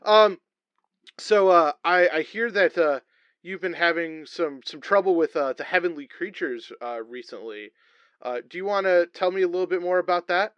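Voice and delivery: halting comic interviewer; comedy talk-show wrestler. Acted. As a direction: stammer your way into the interview question.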